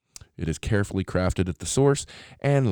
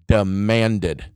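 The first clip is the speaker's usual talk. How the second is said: demanded said louder with a firm fall; stress on demanded; 2 semitones higher, 6 dB louder than usual. Shown as a demonstration. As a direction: land on demanded like an order. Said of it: "Not asked for, not politely requested".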